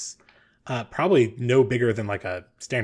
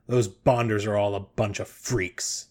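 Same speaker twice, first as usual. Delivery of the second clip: lightly voiced old man, slow; a slow, grumbling call-out, lightly acted; cranky old man; 2 semitones lower than usual. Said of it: "the old man who just shouted crankily".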